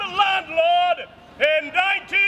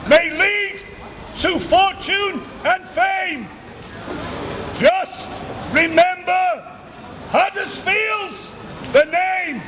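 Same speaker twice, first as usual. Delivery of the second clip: town crier proclamation. Acted.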